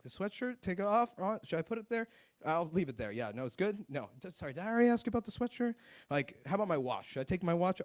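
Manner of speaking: put-on dithering with high questioning rises; acting clueless. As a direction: play the confused traveler checking each step. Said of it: "I just have to act clueless".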